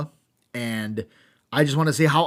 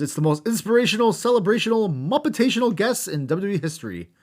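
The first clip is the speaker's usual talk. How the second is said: hype announcer; 7 semitones higher than usual. Retold or imitated. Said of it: "Jerry the King Lawler says".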